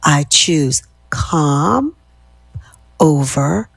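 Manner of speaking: slow, drawn-out affirmation, last word whispered; slow affirmation fading to whisper. Shown as a demonstration. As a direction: let it fade into a breath on chaos. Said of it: "Repeat after me".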